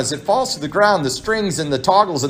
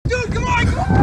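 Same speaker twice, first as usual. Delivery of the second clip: excited yell. Real, not acted. Friend cheering a friend on, yelling. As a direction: urge them on, shouting.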